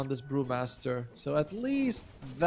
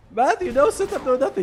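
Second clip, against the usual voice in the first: laughing; 10 semitones higher, 6 dB louder than usual. Real, not acted. Laughing at a teammate's play.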